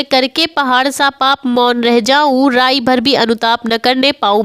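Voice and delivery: measured verse reading; poem recitation. Acted. Verse line quoted again.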